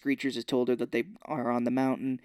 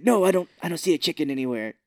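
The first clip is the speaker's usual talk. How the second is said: mock nervous denial; 4 semitones higher, 6 dB louder, faster than usual. Rock answering Gnome King.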